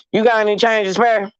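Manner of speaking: lightly imitated listless beggar; unenthusiastic begging. Retelling how the man begged outside the store, unenthusiastic. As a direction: ask for change as if barely bothered, mildly mocking. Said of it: "begging with no enthusiasm".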